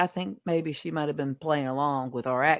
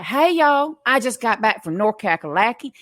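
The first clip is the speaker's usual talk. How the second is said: mock Southern accent; 3 semitones higher than usual. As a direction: imitate an outsider's idea of a Southern accent. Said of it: "this is how they think we sound".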